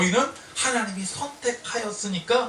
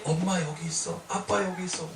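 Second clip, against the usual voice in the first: softer, tender reassurance; comforting child; 4 semitones lower, 4 dB quieter than usual. Retold or imitated. Father retelling comforting his frightened son, softly. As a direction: soothe a frightened toddler gently.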